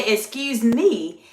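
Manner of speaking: "Excuse me" drawn out slowly with a slight lift; slow, lightly inflected "Excuse me"; polite inflection. Shown as a demonstration. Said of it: "do a very slight inflection of your voice".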